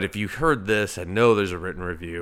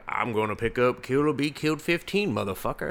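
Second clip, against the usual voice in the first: mock reader voice; 3 semitones higher than usual. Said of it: "you're probably like".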